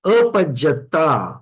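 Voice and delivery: अपज्जता with long, drawn-out vowels; prolonged vowel. Shown as a demonstration. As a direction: stretch अपज्जता slowly, holding the long vowels. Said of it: "वहां पर दीर्घ उच्चारण होता है".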